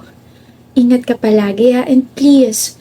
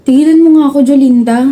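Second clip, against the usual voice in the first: louder, irritated brush-off; annoyed; 2 semitones higher, 4 dB louder, faster than usual. Acted. Grazel snaps at her teasing best friend, annoyed. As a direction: tell her to cut it out.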